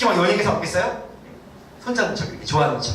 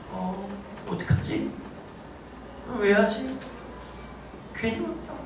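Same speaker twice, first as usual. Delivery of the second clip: mock panic; 2 semitones higher, 8 dB quieter, slower than usual. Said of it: "이렇게".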